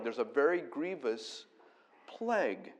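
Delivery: a very grievous PLAGUE, the last word rising; stress on plague. Shown as a demonstration. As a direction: swap in the word plague and lift it. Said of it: "it's talking about the plague".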